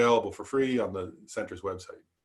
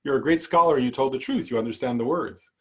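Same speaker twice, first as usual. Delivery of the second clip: lightly voiced old woman, high and bright with glee; a mildly hammed-up delighted crone cheering; teacher voicing an old woman's delight in a story, high and gleeful; 4 semitones higher, 5 dB louder than usual. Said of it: "she started dancing around and said".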